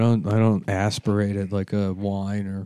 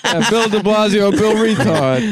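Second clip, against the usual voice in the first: mocking voice; 9 semitones higher, 3 dB louder than usual. Mocking imitation of the clip.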